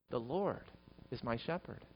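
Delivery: very soft, reflective; quiet words to your own soul; said to oneself. Shown as a demonstration. Preacher repeats the psalm as comfort for the soul, softly reflective. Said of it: "say it to your own soul".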